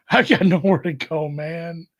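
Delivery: hammed-up movie line; movie quote. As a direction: throw out a film quote with gusto. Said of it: "what is that from? Wayne's World Two".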